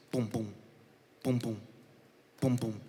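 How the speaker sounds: low, spaced thumps of a pounding heart; imitated heartbeat. Nervous phlebotomist recalling the sound of their pulse, imitated heartbeat.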